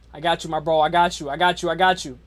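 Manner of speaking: normal talking voice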